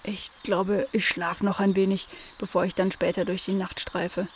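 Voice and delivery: softly voiced drowsy hedgehog; sleepy Spike. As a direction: murmur softly, ready to doze off. (leise, schläfrige Igelstimme)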